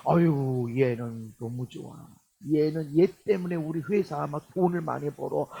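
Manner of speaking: low, soft fond murmur; pleased boss. Acted. Preacher as boss fond of a good employee, pleased.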